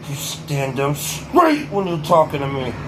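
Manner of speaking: put-on slow stern kid voice, Ted movie quote; lightly voiced stern scolding kid; imitating stern kid. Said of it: "the delivery was fucking amazing".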